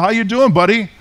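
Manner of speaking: a hint of talking-to-pets voice; Australian chatting to horse. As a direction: greet an animal with a slight lift in pitch. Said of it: "he starts talking to the horse".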